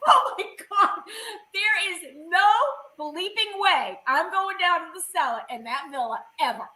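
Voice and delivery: high, laughing "no way"; laughing refusal. Retold or imitated. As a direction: laugh it off in disbelief. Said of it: "I'm like".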